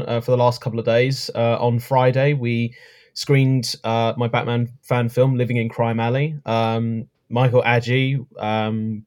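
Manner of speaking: hoarse, croaky voice. Real, not acted. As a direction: talk through a sore throat. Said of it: "you're a bit croaky voice".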